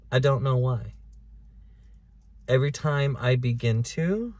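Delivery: ordinary talk, nothing marked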